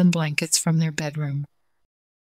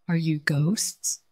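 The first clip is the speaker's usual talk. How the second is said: unearthly voice; 4 dB quieter, slower than usual. Pretend. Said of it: "the ghost said".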